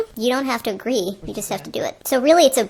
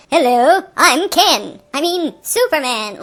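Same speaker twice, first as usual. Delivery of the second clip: mock hero intro; 2 semitones higher, 5 dB louder, slower than usual. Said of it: "it's like".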